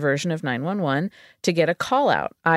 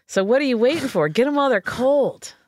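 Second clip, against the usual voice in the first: higher, fast hype pitch; 5 semitones higher than usual. Retold or imitated. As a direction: pitch it like a cheesy ad. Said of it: "And it says".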